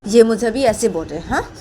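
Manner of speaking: high, loud, indignant demands; very angry. Acted. Payal demands why he hid things from her, very angry. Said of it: "मुझे बहुत गुस्सा आ रहा है इनके ऊपर".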